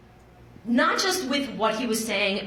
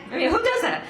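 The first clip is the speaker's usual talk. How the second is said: laughing; 9 semitones higher, 4 dB louder, faster than usual. Real, not acted. Laughing at absurd hospital moment.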